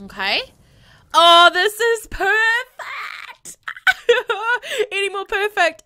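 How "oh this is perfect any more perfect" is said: whispered, slow, high awe then a giggle; breathless delight. Real, not acted. Gamer whispers in awe at the romantic bonfire. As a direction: savor the moment in hushed joy.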